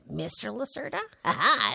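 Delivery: laughing, trying the name on with a rising question; amused laugh. Acted. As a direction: chuckle and savor the title. Savoring her new formal title.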